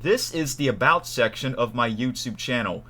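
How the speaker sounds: slightly too loud presenter voice. Real, not acted. Introducing the About section to viewers, too loud. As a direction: project it a little too much. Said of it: "I was talking too loud".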